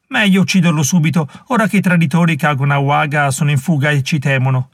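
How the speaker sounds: vengeful warrior. Acted. Warrior demanding the boy's death from his rival, heated. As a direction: insist on vengeance against him. First warrior argues for killing.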